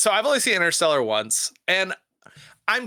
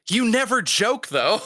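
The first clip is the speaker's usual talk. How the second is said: inner surprise; 8 semitones higher, slower than usual. Retold or imitated. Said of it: "in my head, I'm like".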